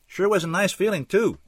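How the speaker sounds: high, yawning stretch in the voice; talking around a yawn. A narrator's reading. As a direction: say it through a mild yawn. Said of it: "Chuck said around a yawn".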